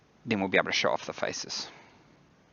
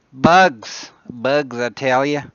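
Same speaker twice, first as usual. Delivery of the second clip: loud, raised cry of mock outrage; exasperated exclamation; 5 semitones higher, 12 dB louder, slower than usual. Real, not acted. Streamer hit by software bugs, exclaiming loudly. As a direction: cry it out loudly and higher, then draw it out.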